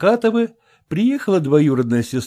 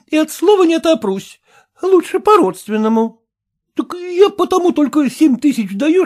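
high, loud bargaining; haggling voices; 4 dB louder than usual. Acted. Relatives bargaining over the inheritance, high and loud. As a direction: push the bargain eagerly.

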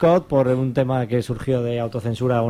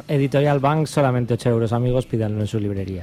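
mock ad read; 3 semitones lower than usual. Mock advert.

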